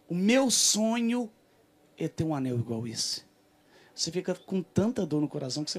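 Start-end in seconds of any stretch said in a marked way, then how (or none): 0.1-3.2 longing. Retold or imitated. Acted longing, slow high.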